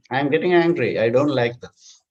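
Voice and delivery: calm, controlled objection with falling endings; gently firm. Shown as a demonstration. Host showing healthy anger, gently firm. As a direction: state displeasure gently but firmly. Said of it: "there is a saying called gently firm".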